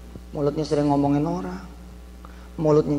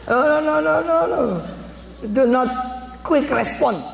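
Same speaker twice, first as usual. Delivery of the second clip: emphatic warning; 9 semitones higher than usual. Acted. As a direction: wave them off firmly. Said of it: "preacher warns".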